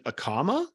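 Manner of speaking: a comma said with a questioning rise, as if the sentence goes on; rising tune on a comma; comma-like upward lilt. Shown as a demonstration. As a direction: let a comma lift up as if unfinished. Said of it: "sounding like you're putting".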